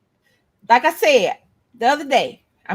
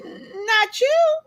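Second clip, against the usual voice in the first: retorting; 8 semitones higher, 4 dB quieter, much slower than usual. Retold or imitated. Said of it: "she don't want no third".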